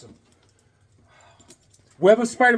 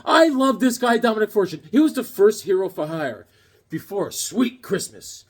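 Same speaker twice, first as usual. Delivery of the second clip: excited recall; 4 semitones higher than usual. Retold or imitated. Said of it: "And I said".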